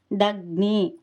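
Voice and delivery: దగ్ని with the గ్ని cluster pressed; stressed conjunct. Shown as a demonstration. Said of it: "కొంచెము ఒత్తి పలకాలి".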